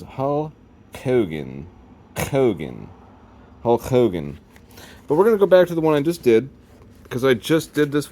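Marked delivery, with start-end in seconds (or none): 0.0-4.4 "Hogan" said with a hard K, as "Kogan"; deliberate mispronunciation. Shown as a demonstration. Warning viewers of the misreading, "Hogan" said as "Kogan". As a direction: start "Hogan" on a K sound, like "Kogan". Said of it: "hear me pronounce it as".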